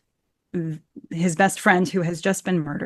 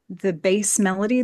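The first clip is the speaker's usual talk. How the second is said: usual speaking voice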